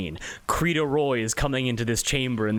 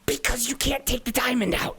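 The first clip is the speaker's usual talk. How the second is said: angel voice; 9 semitones higher than usual. Acted.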